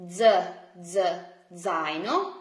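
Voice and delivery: Z as a voiced "dz", then zaino; isolated z sound. Shown as a demonstration. Teacher breaks down backpack word, "zaino" opening on dz. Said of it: "Z, in Italian zeta".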